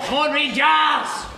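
drawn-out fan shout; slow bellowed encouragement; football cheer. Acted. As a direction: urge the team on, stretching the name. Cheering at televised match.

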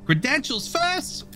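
a stern foreman scolding his worker; gruff boss voice. Acted. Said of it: "that's exactly his voice".

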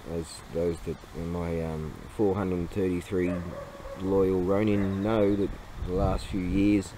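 normal talking voice

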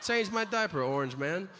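lightly acted president's insult, starting high; a hint of a head of state taunting another; foreign president. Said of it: "The president of another country should tell ours".

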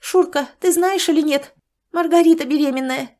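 rattling off. Acted. Galina tells Sanych by phone, excited and rushed. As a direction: blurt the news in a rush. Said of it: "затараторила в трубку Галина".

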